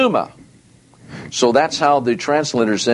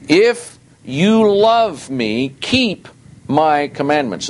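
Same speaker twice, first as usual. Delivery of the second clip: emphatic scripture reading; 2 semitones higher, slower than usual. Real, not acted. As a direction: lean on each word of the verse. Reads verse with heavy emphasis.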